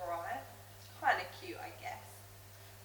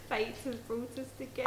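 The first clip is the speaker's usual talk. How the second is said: giggly gushing; 9 dB louder, faster than usual. Acted. Smug gushing over boyfriend.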